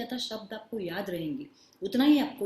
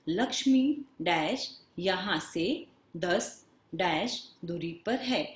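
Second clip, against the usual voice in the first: slow, word-by-word sentence reading; exercise read-out; much slower than usual. Shown as a demonstration. Teacher reads an exercise to children, slow and deliberate. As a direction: read slowly, pausing around each blank.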